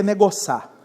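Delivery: "negociar" squeezed into "negoçar", Minas style; Minas Gerais accent. Shown as a demonstration. Pastor joking with the congregation about Minas speech, Minas accent. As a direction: say "negociar" as a Mineiro would, "negoçar". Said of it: "Lá em Minas a gente diria".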